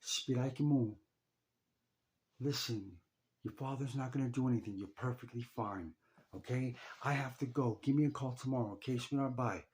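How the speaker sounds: chirpy mom waving his fears away; mocking mom's dismissal. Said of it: "And she said".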